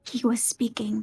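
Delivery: hushed unvoiced whisper. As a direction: breathe the words with no voice. Character whispers in play.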